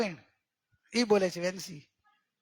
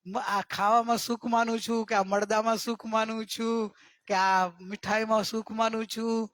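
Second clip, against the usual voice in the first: slow reflective line; slower than usual. Shown as a demonstration. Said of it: "ખાતી વખતે કહેવાનું કે".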